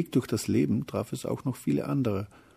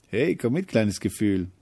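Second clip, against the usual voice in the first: rousing invitation; 4 dB louder than usual. Acted. Courage hails the little feeling, rousing invitation. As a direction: call out a bold, eager invite.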